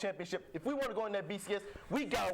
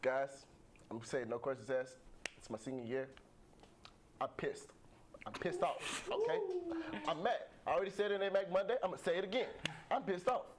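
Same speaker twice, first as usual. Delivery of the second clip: Jackson Jeffcoat impression. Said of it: "I'm gonna be Jackson Jeffco now".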